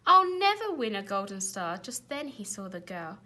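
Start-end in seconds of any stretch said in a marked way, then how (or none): 0.1-1.8 loud lament; despairing cry. A narrator's reading. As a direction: wail about the star. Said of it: "he cried".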